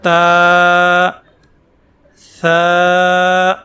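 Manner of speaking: تا and ثا stretched, ثا kept soft; drawn out, soft. Shown as a demonstration. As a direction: lengthen each letter gently. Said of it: "کھینچ کے پڑھیں گے اور ثا کی آواز کے اندر نرمی". (کھینچ کر اور نرمی سے)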